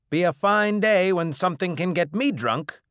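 high, loud boast; scoffing bar owner. Acted. Bar owner doubting any drink can affect him, loud scoffing. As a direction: scoff loudly at the challenge.

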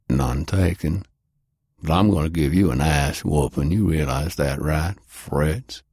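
low, calm, steady warning; calm threat. A narrator's reading. Jake warns the German stranger of a beating, calmly. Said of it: "Jake stated calmly".

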